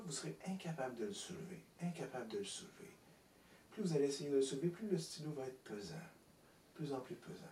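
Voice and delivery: soft, repeated suggestion, sinking at the ends; hypnotic suggestion. Real, not acted. Hypnotist telling the volunteer the pen grows heavy, hypnotic suggestion. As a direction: let each repeat weigh heavier.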